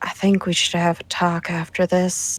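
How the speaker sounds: speaking in a whisper. Voicing a character who leans over to tell a companion something: whispering. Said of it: "lean over and whisper to him".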